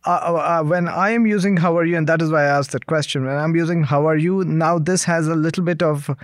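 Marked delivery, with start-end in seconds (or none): 1.6-2.0 "How are you?" with each of HOW, ARE, YOU stressed; every word emphasized. Shown as a demonstration. Asking "How are you?" as more than a greeting, each word emphasized. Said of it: "I'm emphasizing each word". 3.8-4.4 "How are you?" enunciated word by word; every word emphasized. Shown as a demonstration. Interviewer asking "How are you?" and meaning it, each word emphasized. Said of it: "I'm emphasizing each word".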